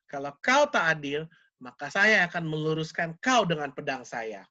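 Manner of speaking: stern caliph. Retold or imitated. Caliph's warning voiced in story.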